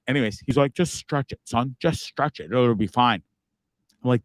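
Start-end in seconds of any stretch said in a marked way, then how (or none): 0.7-3.2 a hint of British accent, imitating Dad; lightly voiced dad with a faint British lilt; dad's slight British accent. Dad tells his son to stretch it, slight British accent. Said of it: "tiny bit of a British accent".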